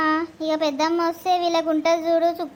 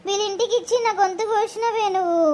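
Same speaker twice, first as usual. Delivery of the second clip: tearful complaint to her mother; crying. Acted. Daughter crying to her mother about her marriage, in acted tearful sobbing. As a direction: sob out the blame. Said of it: "ఏడవకు బిడ్డ".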